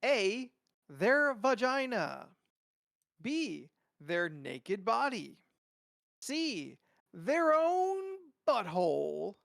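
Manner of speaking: light announcer voice, big build; fighting game announcer. Pretend. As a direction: read it like a game-show host. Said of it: "announcer voice back on".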